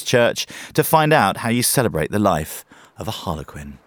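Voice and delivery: polished scripted radio introduction; radio presenter read. Acted. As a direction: introduce the feature to radio listeners. Presenter reads scripted feature introduction.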